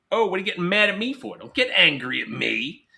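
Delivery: exasperated scolding adult; mock scold. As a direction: snap at them like an annoyed parent. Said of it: "things like".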